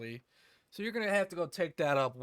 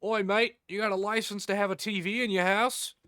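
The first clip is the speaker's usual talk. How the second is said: loud, higher mock Cockney licence inspector; mock British accent; 6 semitones higher, 7 dB louder than usual. TV licence man knocking on the door, in a loud mock British accent. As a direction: do a cheeky hammed-up London bloke at the door. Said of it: "and they just go".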